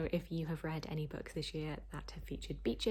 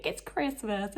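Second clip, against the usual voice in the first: incredulous, pitched up and loud; as if nobody should be working; exasperated; 6 semitones higher, 5 dB louder, slower than usual. Real, not acted. Vlogger complaining about work emails, incredulous.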